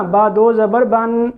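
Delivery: slow spelling-out, بن ending in a clear n; audible final noon. Shown as a demonstration. Teacher recalling the example just read, audible final noon. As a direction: spell it slowly and land on the n of بن. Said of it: "اب جیسے میں نے ابھی پڑھا نا".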